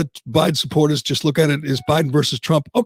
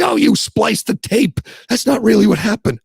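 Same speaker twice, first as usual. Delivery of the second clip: a light mocking voice, a little higher; mock dismissive defender; 6 semitones higher than usual. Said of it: "And they say".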